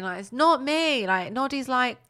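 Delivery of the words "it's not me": high, insistent toy voice; put-on high voice, stressing the denial; frustrated Noddy. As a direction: protest innocence in mock frustration. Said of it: "getting so frustrated".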